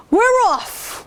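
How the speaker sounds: hammed-up high cheer "We're off"; cheering with the crew as they set sail; mock pirate shout. Crew cheering to set sail, high mock shout. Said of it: "we all shouted".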